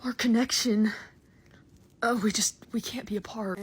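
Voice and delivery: breathless whispered longing; hammed-up whispered devotion; mock whisper. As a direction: whisper it like a lovesick confession. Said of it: "I'm like".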